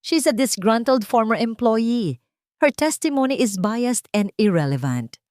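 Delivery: a lightly voiced, sneering defense lawyer; dismissive opposing lawyer. A narrator's reading. Opposing lawyer brushing off the maid witness, lightly sneering. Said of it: "mabilis na sabi ng abogado".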